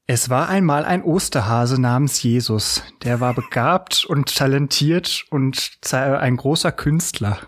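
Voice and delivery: measured fairy-tale read-aloud; mock storybook reading. Podcaster fakes a children's Bible reading for listeners, mock storybook voice. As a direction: read it out like a children's story, lightly tongue-in-cheek. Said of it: "in meiner schlechten Vorlesenstimme".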